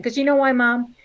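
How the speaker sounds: a daughter loudly refusing to go to the wedding; mock rant. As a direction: hammer the punchline home. Ranting punchline to mom.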